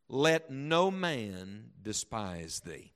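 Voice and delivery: slow, emphatic Bible reading; declaimed scripture, with deliberate pauses; solemn scripture reading. Acted. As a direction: read it out with weight, drawing out key words. Reads Scripture aloud emphatically.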